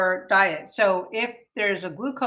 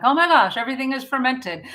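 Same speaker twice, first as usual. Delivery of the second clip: excited; 4 semitones higher, 4 dB louder, faster than usual. Retold or imitated. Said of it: "I'm so excited".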